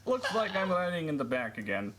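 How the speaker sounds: lightly put-on serious Russian voice; Kenny's humorous voice. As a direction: play it as a mock Russian. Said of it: "said Kenny with a humorous voice".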